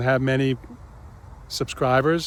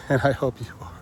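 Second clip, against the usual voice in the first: laughing; faster than usual. Real, not acted. Laughs at his own joke.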